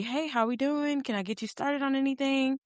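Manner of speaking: high, soft bubbly server voice; bubbly waiter. Retold or imitated. Voicing the cheerful waiter to his table. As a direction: mimic a chirpy waiter greeting.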